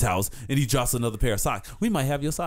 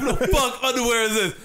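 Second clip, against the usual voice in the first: retold anger; 8 semitones higher than usual. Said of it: "I was like".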